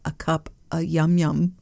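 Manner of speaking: yum yum lilted up at the end; sing-song yum yum. Shown as a demonstration. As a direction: sing it cute, rising on yum yum. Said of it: "You gotta say it like that".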